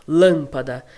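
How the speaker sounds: lâmpada with the stress firmly on the first syllable; sílaba tônica forte. Shown as a demonstration. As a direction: lean on the LÂM of lâmpada. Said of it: "Pra dar aquele som". (lâmpada com o LÂM mais forte)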